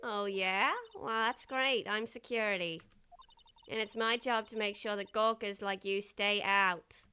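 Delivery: tough guard, firm and dismissive; gruff security guard. Acted. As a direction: talk down to trespassers. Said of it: "Actually, I love this voice".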